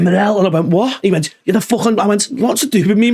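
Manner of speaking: a hint of a pretend spat; mock argument. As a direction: bounce the quarrel back and forth playfully. Acted back-and-forth in prank story.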